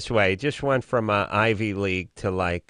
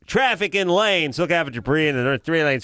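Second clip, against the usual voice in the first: hammed-up traffic report; radio announcer; 2 semitones higher than usual. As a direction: drag out the traffic warnings.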